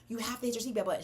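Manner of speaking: put-on steady yourself and tell the child softly; re-enacted composed direction; calmed down. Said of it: "you gotta calm down".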